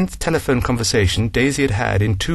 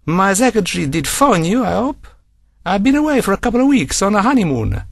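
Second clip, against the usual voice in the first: gushing apology from a pleased client; Frank Bacini, apologetic; 10 semitones higher than usual. Acted. Bacini apologising to Daisy, high and gushing.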